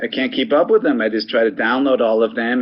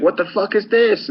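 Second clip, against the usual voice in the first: high-pitched mock disbelief; mock shock; 10 semitones higher than usual. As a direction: act out being baffled, pitch jumping up. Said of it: "so I was like".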